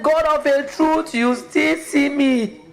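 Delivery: tearful thanks, slow and lifted; crying out to God. Retold or imitated. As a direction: say it slowly, overwhelmed with relief. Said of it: "I was crying because I said".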